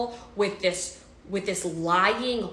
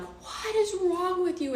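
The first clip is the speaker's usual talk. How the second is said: retold scream; 12 semitones higher than usual. Pregnant woman confronting her partner on the phone, retold scream. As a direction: relive a drawn-out, high cry of outrage. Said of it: "I just screamed this, like, death scream".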